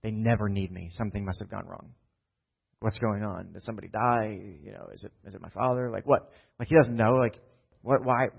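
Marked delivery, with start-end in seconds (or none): 0.0-6.3 anxious inner thoughts. Retold or imitated. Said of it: "in his mind, what's maybe thinking".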